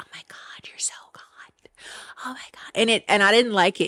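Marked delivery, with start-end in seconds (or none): 0.0-2.7 out-of-breath, breathy whisper, almost no voice. Retelling how a contestant talks when emotional: imitating a breathy whisper. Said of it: "she starts to whisper".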